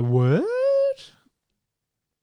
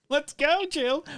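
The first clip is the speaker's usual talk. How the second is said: clown hype line; 13 semitones higher, slower than usual. Shown as a demonstration. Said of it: "like, and".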